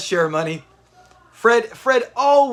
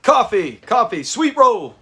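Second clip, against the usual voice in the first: imitating Fred; 3 semitones higher, 3 dB louder, slower than usual. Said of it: "I love when he does that".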